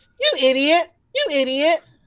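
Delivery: put-on very high girl's voice. Voicing a gazer that perfectly mimics the sailor girl: imitating the sailor girl's voice. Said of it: "in perfect replication of the girl's voice".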